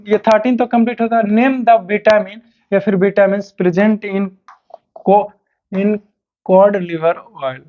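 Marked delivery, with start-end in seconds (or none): 1.2-7.6 slow, drawn-out question reading; dictation pace. Acted. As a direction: read slowly, word by word. (धीरे-धीरे सवाल लिखवाना)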